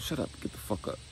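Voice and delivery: urgent hissed whisper; hissed order. Retold or imitated. Mother hushing her wounded son, an urgent hissed whisper. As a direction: hiss it at him to keep quiet.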